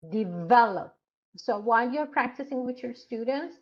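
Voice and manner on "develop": Develop with the middle syllable punched; de-VEL-op, middle syllable louder; stress on VEL. Shown as a demonstration. Teacher modelling word stress on develop. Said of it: "Word stress is very important".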